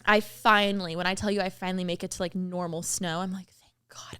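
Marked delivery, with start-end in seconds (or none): 3.5-4.2 whisper. Retold or imitated. Relief at reaching normal snow.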